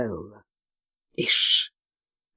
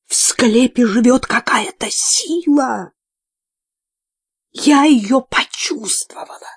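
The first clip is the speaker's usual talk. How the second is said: eerie whisper; 7 semitones higher than usual. A narrator's reading. Nun tells of spirit in crypt.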